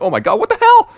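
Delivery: high, loud "what the hell" of disbelief; mock shocked outburst. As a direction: react like a stunned viewer. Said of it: "You're like".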